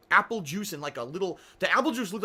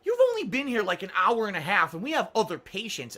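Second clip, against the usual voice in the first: mock scornful nurse; 2 semitones higher, 3 dB louder than usual. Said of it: "a look of scorn".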